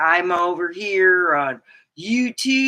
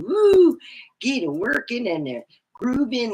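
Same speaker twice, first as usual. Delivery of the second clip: excited whoop; 5 semitones higher than usual. Retold or imitated. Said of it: "It's like saying".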